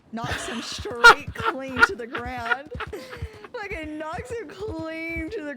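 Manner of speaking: high, loud and slow, broken by laughter; laughing retelling. Real, not acted. Player recounts horse knocking friend down, laughing. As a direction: tell it through bursts of laughter. Telling a wild mishap, laughing.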